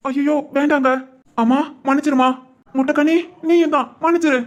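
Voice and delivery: high, begging for mercy; pleading apology. Acted. Beaten bully begs the women's pardon, high and pleading. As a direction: plead for forgiveness in fear.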